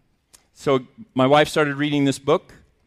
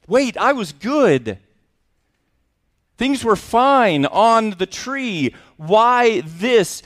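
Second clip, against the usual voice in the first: high, pleading voice of a bean in pain; a bean's hurt, pleading lament; voicing the coffee bean; 7 semitones higher, slower than usual. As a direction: cry out like the bean being torn apart.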